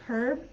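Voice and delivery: "herb" with the H sounded at the start; British H in herb. Shown as a demonstration. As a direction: breathe a clear H into "herb". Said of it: "They might pronounce the H".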